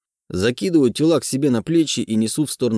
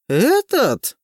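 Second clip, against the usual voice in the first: hissing; 13 semitones higher, 4 dB louder than usual. A narrator's reading. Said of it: "шипит Дятлова".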